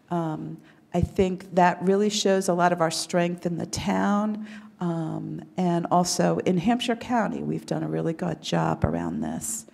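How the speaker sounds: hoarse from a cold, a bit rough; rusty voice. Real, not acted. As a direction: speak with a rusty, cold-worn voice. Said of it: "So I apologize for my rusty voice".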